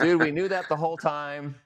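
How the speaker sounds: amused disbelief, laughing through it. Retold or imitated. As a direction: laugh while you say it. Retelling reply to client, laughing.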